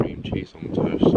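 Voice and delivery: half-awake attempt at sounding keen. Shown as a demonstration. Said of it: "say that with a bit more enthusiasm".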